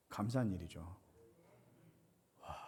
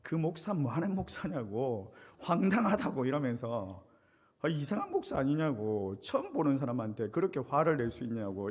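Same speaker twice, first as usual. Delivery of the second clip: 1 retold angry complaint; 3 dB louder than usual. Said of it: "화를 내면서".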